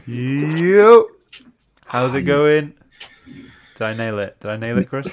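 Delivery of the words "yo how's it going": practiced greeting. Pretend. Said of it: "practice this now".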